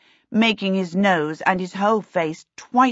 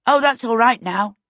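light, higher and louder reassurance; cheerful; 5 semitones higher, 5 dB louder than usual. A narrator's reading. Peter reassures Timmins about the meadow, cheerfully. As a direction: brush the worry away brightly. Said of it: "Peter said cheerfully".

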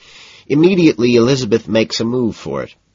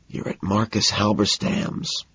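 softer, slow hushed line; whispered; 5 dB quieter, slower than usual. A narrator's reading. Patrick whispers his fake name to Elizabeth. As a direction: hush it so only she hears. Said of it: "I whisper".

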